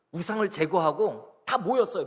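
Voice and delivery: usual speaking voice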